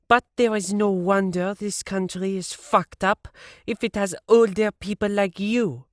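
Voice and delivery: high, loud scolding rant; high-pitched furious rant at a stranger; yelling at old woman. A narrator's reading. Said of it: "after yelling at an old woman".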